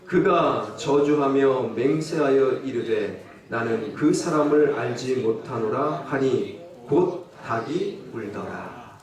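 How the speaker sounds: slow, solemn Bible reading; solemn scripture read, lightly slowed. Acted. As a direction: read it like holy text. Reads scripture slowly.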